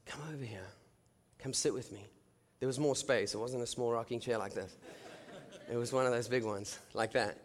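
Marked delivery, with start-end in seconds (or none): 0.1-2.1 very hushed, easy beckoning; barely-voiced calm invitation; God's gentle voice. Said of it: "and he's just".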